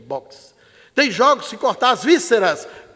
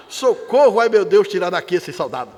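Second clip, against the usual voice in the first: mock desperate cry; 3 semitones lower than usual. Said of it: "o capeta gritar desesperado".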